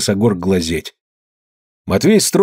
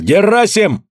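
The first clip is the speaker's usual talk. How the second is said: higher, raised accusation; accusing shout; 8 semitones higher than usual. A narrator's reading. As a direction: throw the accusation at the elder. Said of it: "Калистрат Зотов крикнул".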